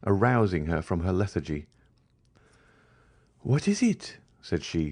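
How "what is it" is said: much higher, jolted question; as if shocked awake; startled. A narrator's reading. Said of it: "starting at Madame Danglars' touch".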